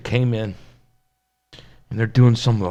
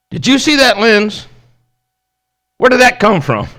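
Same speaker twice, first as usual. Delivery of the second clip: amazed father; 10 semitones higher, 7 dB louder than usual. Retold or imitated. Father calls, amazed about lens.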